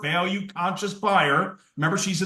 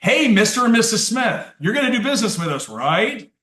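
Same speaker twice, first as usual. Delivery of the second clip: salesman demo; 4 semitones higher, 4 dB louder than usual. Shown as a demonstration. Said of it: "I'll say it again slowly".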